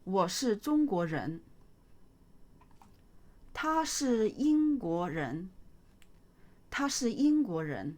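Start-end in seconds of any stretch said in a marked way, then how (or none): 3.5-5.5 slow model reading. Shown as a demonstration. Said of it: "teacher models sentence slowly".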